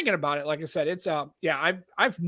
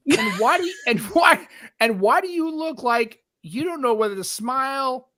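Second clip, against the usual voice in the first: climbing higher with mock disbelief; incredulous friend; 6 semitones higher than usual. Friend mocking his odd photo face, rising incredulous voice. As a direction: tease him like a baffled friend. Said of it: "She goes".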